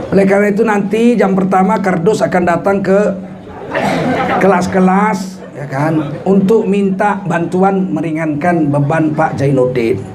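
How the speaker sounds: mock speech. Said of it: "kepala sekolah pidato".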